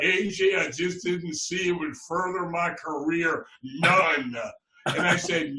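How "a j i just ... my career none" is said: lightly imitated Arkansas drawl; easygoing southern drawl, only hinted; Roy's Arkansas drawl. Quoting Roy turning down a band, mild Arkansas drawl. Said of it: "that Arkansas drawl goes".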